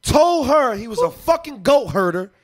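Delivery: impassioned sermon-like retelling with punched phrases; preaching. Real, not acted. Man retelling a movie to prove his point, preaching. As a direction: preach the story like a lesson. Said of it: "It's like he preaching right now".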